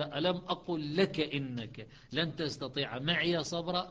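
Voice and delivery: slow recited verse; Quran recitation. Shown as a demonstration. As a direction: recite it slowly, chant style. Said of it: "قال".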